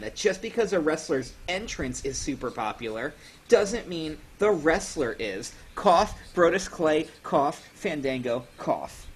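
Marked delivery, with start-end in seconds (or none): 5.7-9.1 saying cough with a fake cough; slow mock coughing out names. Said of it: "somebody should get him some cold medicine".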